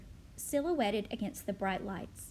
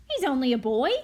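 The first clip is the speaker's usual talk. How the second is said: indignant protest; 8 dB louder, faster than usual. Acted. Mother defends her son.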